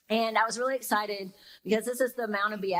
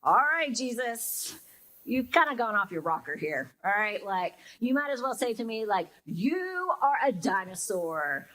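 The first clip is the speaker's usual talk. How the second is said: skeptical. Retold or imitated. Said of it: "you're kind of like".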